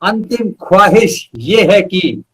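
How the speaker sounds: measured verse with pauses between phrases; poem recital. Acted. Poet reciting his own verse to the host, measured poetry recital. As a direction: recite each line slowly and weigh it.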